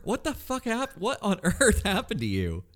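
squeaky laughing questions; laughing disbelief. Real, not acted. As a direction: laugh while asking in shock.

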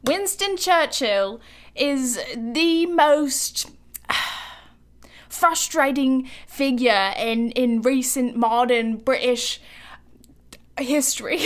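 slow, mock-solemn British accent; a clumsy stab at a posh British pronouncement; bad British accent. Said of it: "worst British accent I've done".

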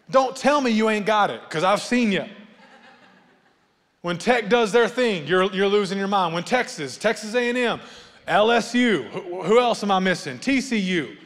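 loud, high playful call-out; teasing excitement. Acted. Pastor teasing fans who lose their minds, playful and loud. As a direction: rib the crowd about their teams.

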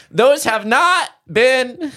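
high, slow, desperate plea; panicked plea. Retold or imitated. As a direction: beg her to hear you out. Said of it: "And he goes".

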